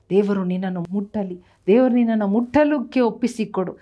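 rising, impassioned preaching voice; fervent preaching. Acted. Pastor preaching healing to the congregation, fervent. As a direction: preach healing to the crowd with fire. Full-force healing sermon.

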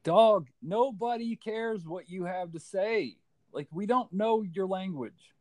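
put-on high, slow sing-song baby talk; mock talking to a baby. Gamer teasing an infant in a high, slow baby-talk voice.

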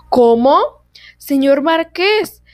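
excited royal outburst, loud and drawn out; enthusiastic exclamation. Acted. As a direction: burst out in delight as the king. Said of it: "exclamó el rey, muy entusiasmado".

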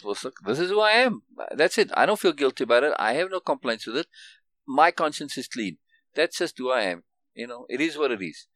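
steady and matter-of-fact, nothing to prove; settled and at peace, no edge; mild confident statement without the bravado; calm self-assured. Pretend. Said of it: "don't even have to have that kind of hard case attitude".

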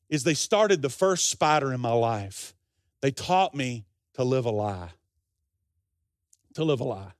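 low, grave retelling with pauses; solemn revelation. Retold or imitated. Preacher solemnly delivers the grave point.

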